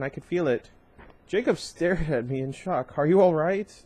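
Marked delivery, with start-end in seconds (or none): 3.0-3.8 shocked concern. Acted. Jacob shocked, checks on her.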